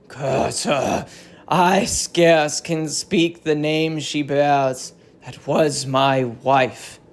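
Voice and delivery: a lightly voiced king torn between rage and scorn; hint of a wronged king half-holding his fury; violent, conflicting emotions. King Menelaus ordering soldiers to fetch his wife, barely contained fury. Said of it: "He is the prey to violent and conflicting emotions".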